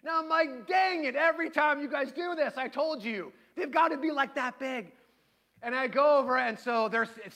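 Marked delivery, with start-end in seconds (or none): 0.7-4.9 raised, complaining dad rant; hammed-up fed-up father; mock exasperated scolding. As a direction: scold the kids in comic frustration. Dad scolds kids in story.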